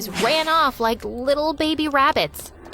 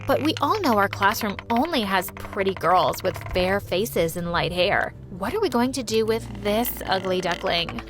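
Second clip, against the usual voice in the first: mocking mean girl; 3 semitones lower than usual. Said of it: "then said".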